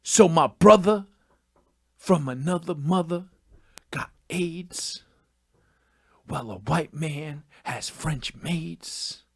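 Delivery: hushed lines with long dramatic pauses; mock slam poet. Host mocking slam poetry with made-up verse, mock slam poet. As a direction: parody a slam poet, slow and portentous. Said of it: "Slam poetry, just being like".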